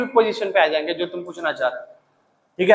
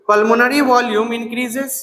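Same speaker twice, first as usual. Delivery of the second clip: slower repeat for notes; slow dictation; much slower than usual. Shown as a demonstration. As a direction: say it once more, slowly. (दोबारा धीरे से लिखवाना)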